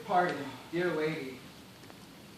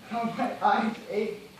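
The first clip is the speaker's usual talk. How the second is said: pained moan; 4 semitones higher, 4 dB louder, slower than usual. Acted. Parched castaway moans in pain.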